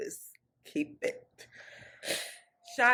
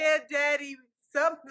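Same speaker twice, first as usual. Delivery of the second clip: mock bedroom voice; 5 semitones higher than usual. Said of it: "it was like".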